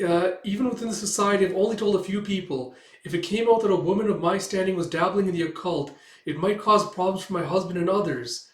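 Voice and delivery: lightly voiced society lady, worried; confiding Melinda. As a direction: explain the risk earnestly. Manga reading, Melinda confiding.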